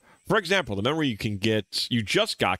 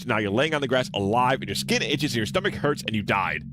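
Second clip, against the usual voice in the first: frantic self-scolding; 3 semitones higher than usual. Acted. Acted self-berating inner monologue.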